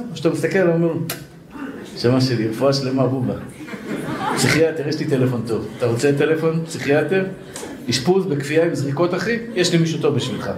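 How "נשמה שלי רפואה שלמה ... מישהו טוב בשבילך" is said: lower, syrupy-kind mock comfort; mock soothing friend. Answering the man who called him short, mock caring. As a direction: coo at him like a concerned friend offering help.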